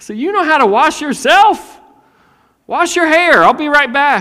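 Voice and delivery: impatient father voice.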